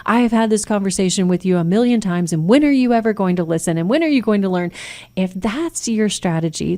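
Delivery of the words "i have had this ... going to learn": nagging lecture. Shown as a demonstration. Parent lecturing a teen after a failed exam, fast and nagging. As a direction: rattle off the told-you-so rant in one breath. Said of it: "That's a way different conversation than".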